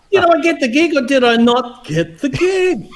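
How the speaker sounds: high, half-laughing mock desperation; retold exasperation. Auditionee begging Chick for news, comic exasperation. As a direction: demand an answer, hammed up. Acting out finally demanding an answer.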